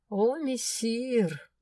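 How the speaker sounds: very slow, high mock deference; sarcastic courtesy. A narrator's reading. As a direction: drawl the title with sarcasm. Mock-polite sarcastic address. (язвительно, нараспев)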